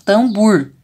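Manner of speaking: TAMBOR said as "tambur", with U in the last syllable. Shown as a demonstration. Teacher modelling a child's mistake, TAMBOR as "tambur". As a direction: swap the O of TAMBOR for an oo sound. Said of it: "você fala a palavra com U".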